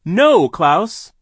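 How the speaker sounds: high desperate shout. A narrator's reading. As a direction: scream at him to stop. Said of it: "Violet shouted".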